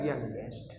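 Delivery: usual speaking voice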